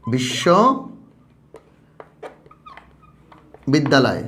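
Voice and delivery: বিশ্ববিদ্যালয় stretched very slowly, every syllable held; teacher stretching বিশ্ববিদ্যালয় for the class; drawn-out syllables. Shown as a demonstration. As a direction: pull বিশ্ববিদ্যালয় out slowly for counting. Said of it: "দেখো, কয়টা অক্ষর আছে?".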